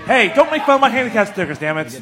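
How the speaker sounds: playfully indignant, laughing; mock offended. Veteran teasing back about handicap stickers, mock offended and laughing.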